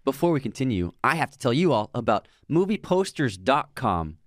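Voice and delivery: conversational sponsor read; podcast ad read. Acted. Host telling listeners about a poster website, ad read.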